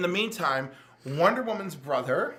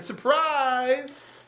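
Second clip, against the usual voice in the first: villain reveal; 2 semitones higher, 6 dB louder, slower than usual. Retold or imitated.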